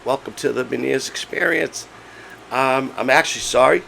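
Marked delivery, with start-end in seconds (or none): 2.5-3.8 hoarse, strained laryngitis voice; voice giving out. Real, not acted. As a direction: talk through a lost voice. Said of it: "I have laryngitis".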